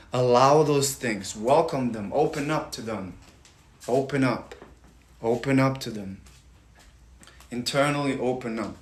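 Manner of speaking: soothing meditation guide; guided meditation. Acted. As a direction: lead them gently through the tapping.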